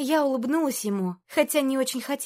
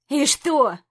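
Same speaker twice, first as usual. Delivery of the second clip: mocking; 3 semitones higher, 5 dB louder than usual. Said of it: "насмешливо проговорил он".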